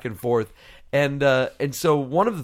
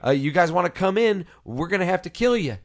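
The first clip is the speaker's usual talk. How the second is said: mild hollering; 4 semitones higher than usual. Retold or imitated. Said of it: "he starts hollering out".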